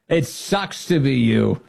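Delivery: lightly imitated gleeful taunt; imitating cheerful. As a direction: relish the cheery put-down again, slowly. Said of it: "she says it so cheerfully".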